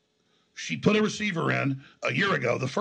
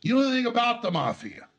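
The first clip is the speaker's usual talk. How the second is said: scornful retort; 5 semitones higher than usual. Retold or imitated. Indignant retort to lawyer's boast.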